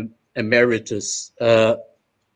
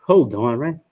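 indignant retort; 3 semitones higher than usual. Retold or imitated. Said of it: "And I was like".

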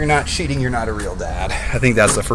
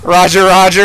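battle droid voice; 6 semitones higher, 6 dB louder than usual. Retold or imitated. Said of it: "you're still a battle droid".

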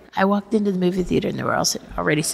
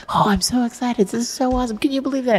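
mock tearful gushing; 5 semitones higher, faster than usual. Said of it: "And I'm crying".

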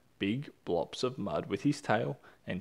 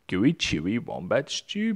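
proud, louder brag; boastful; 5 dB louder than usual. Acted. Dingo boasts to Emu, proud. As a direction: show it off. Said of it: "boasted Dingo".

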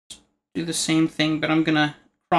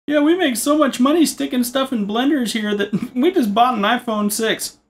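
lightly higher mock host voice; mock show host; 7 semitones higher than usual. Lightly imitating the blender host talking to his viewers. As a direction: play the cheerful blender presenter. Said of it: "You guys watch that channel?".

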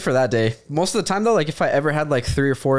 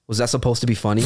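lower, deadpan imitation of an unamused woman; straight-faced; 4 semitones lower, faster than usual. Homeowner answers a salesman's joke, straight-faced and unamused. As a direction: deliver it dead serious, pitched down. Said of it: "the lady was so straight-faced".

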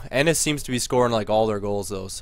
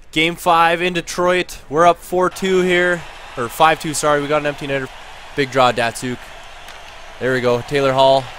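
lively hockey commentary, calling each pass; live play-by-play. Pretend. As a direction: call the final seconds as they unfold. Live play-by-play of final seconds.

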